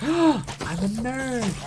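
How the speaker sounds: high, slow, dismayed cartoon kid voice; Bart's nerd line. Bart seeing his reflection in glasses, high and slow. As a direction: draw it out like a horrified schoolboy. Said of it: "From The Simpsons".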